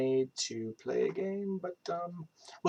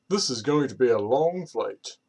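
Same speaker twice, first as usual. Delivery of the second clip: British accent. Shown as a demonstration. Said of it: "so British accent".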